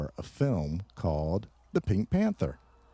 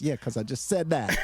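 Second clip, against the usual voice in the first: laughing; 6 semitones higher than usual. Real, not acted. Teasing co-host, laughing.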